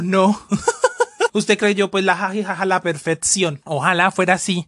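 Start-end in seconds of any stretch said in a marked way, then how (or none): 0.5-3.6 burlona risa aguda al decir usted creyó; ríe con burla; laughing. Real, not acted. (risa burlona y aguda)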